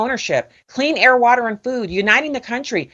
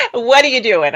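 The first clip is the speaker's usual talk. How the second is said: light mock New York accent, a little louder; a playful New York accent on the question; 3 semitones higher, 5 dB louder than usual. Host teasing guest, repeating his line in a New York accent. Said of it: "I'm gonna have to say it with your New York accent".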